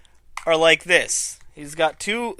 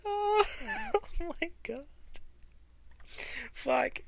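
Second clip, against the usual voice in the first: high wheezing laugh into soft words; helpless laughter; 13 semitones higher, 13 dB quieter, slower than usual. Real, not acted. Fan losing it over Hogan's line, high laughter. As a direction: laugh till the voice squeaks.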